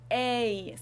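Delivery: A glided from one sound into a second; English diphthong. Shown as a demonstration. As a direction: draw out A, mouth moving. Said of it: "move your mouth while saying them".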